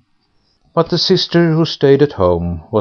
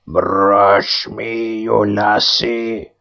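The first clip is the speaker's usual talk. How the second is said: pool head voice; much slower than usual. A narrator's reading. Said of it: "said the head".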